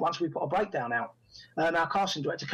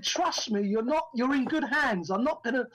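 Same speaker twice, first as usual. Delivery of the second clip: higher, emphatic retold plea; insistent reassurance; 4 semitones higher than usual. Director promising actor he's in good hands, insistent. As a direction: win them over with emphatic assurances.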